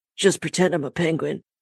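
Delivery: imitated gravelly whisper. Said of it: "with that gravelly whispered voice in her ear".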